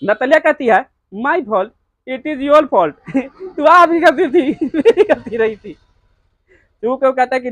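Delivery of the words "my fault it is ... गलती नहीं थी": teacher laughing while reading the daughter's line; laughing retort. Acted.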